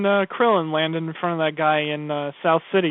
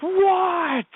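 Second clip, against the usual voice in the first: mock Vegeta reply; 14 semitones higher than usual. Vegeta answering.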